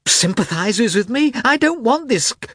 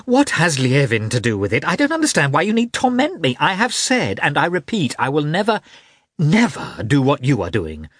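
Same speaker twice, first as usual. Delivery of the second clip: much higher, louder, near shrieking; furious shrill outburst; losing control; 6 semitones higher, 3 dB louder than usual. Acted. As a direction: lose all self-control at her sister. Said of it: "deprive Kitty of the last fragments of self-control".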